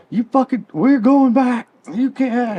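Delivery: high-pitched, exasperated imitation of a fed-up boyfriend; mock angry outburst. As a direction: berate a drunk girlfriend in a hammed-up high voice. Acting out man berating drunk girlfriend.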